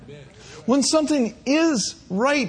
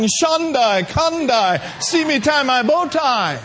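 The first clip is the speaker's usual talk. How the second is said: mock pompous preacher; 4 semitones higher than usual. Mocking a pompous preacher at home.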